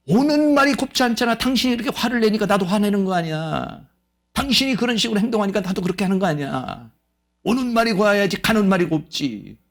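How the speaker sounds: mock angry retort. Spouse blaming the other for starting the fight, mock angry. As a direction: snap back like someone blaming the other.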